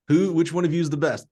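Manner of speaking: eager retold ask; high loud retold question. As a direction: call it out high to the hurdlers. Retelling the coach's question.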